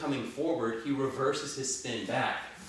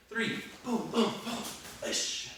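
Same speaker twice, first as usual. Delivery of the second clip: boxing coach calling combos; 10 semitones higher, slower than usual. Shown as a demonstration. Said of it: "counting reps with strikes".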